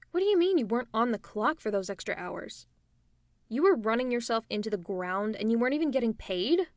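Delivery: loud, outraged questioning; indignant disbelief. Acted. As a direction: protest on a friend's behalf, incredulous. Outraged at hero's unpaid overwork.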